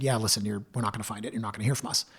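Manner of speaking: frustrated resignation. Retold or imitated. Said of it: "you could tell he was frustrated".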